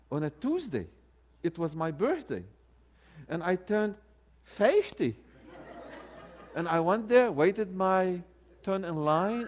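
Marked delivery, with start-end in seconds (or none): 4.4-5.2 punchy Southern "FAY-fty", higher and louder; playful Southern "fifty"; Southern dialect. Retold or imitated. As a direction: mimic the Southern vowel in "fifty". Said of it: "understand the Southern dialect".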